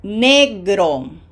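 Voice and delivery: Fruta said loud and clear; Spanish pronunciation model. Shown as a demonstration. Teacher modelling a Spanish word loud and clear. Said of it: "Say it slowly like that".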